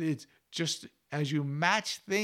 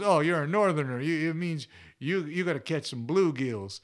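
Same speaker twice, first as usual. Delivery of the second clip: imitated Southern accent, louder at the start; teasing a Northerner in a mock Southern accent; 4 dB louder than usual. Southern fisherman correcting a Northerner, Southern accent. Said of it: "with that Southern accent".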